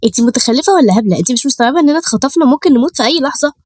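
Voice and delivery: high-pitched scolding, no real volume; angry yelling. Acted. Third captive girl scolds the oblivious Maryam, angry yelling. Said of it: "اتكلمت بزعيق وقالت".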